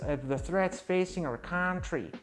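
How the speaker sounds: Ren. Acted. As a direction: read the blurb as a put-on cartoon character. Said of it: "now I'm doing, like, a Ren sort of thing".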